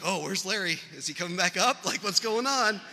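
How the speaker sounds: a touch of imitated panic; retold alarm. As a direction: act out worried searching for someone. Retold alarm after raft capsizes.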